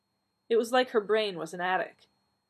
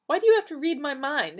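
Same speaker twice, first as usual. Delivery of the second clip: indignant; 9 semitones higher, 8 dB louder than usual. Acted. Donna demands, indignant.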